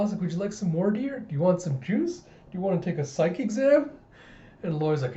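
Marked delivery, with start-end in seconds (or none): 0.2-3.9 higher, eager questions; doting offers. Acted. Colleagues offer the child juice, doting. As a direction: offer treats to a little kid in a lifted lilt.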